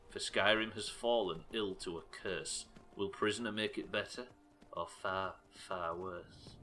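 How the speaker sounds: a hint of a creepy Hitchcock narrator; Hitchcock twang. Shown as a demonstration. Rereading the chat poem as Hitchcock, slow and lightly ominous. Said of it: "You've got to give it that Hitchcock twang".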